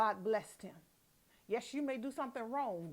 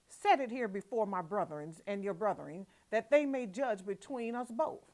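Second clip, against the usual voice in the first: indignant Jacob; 6 dB louder than usual. Acted. Jacob protesting to Laban, indignant and louder. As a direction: plead your innocence, voice rising.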